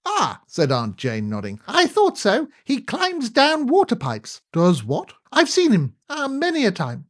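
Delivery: put-on high, quavery old lady voice; old aunt voice. A narrator's reading. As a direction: ask like a deaf elderly aunt. Aunt Jane speaking.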